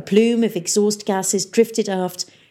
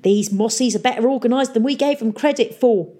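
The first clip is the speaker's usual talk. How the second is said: pirate mayor; 5 semitones higher, 3 dB louder than usual. Acted. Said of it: "he said".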